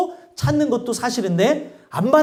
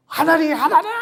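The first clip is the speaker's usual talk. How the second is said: mock crying out; 5 semitones higher than usual. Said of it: "그러면서 막".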